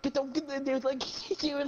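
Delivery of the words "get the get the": high, imitated panicky stammer; stuttering. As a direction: stumble over the first words, pitched up. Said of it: "stuttering and everything".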